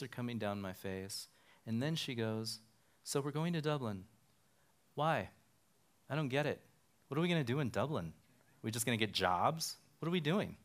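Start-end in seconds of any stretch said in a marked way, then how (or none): 3.0-10.6 a higher, quicker imitation of his wife, puzzled; bewildered wife. Wife questioning the Dublin move, lightly voiced baffled wife. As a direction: fire off her confused questions.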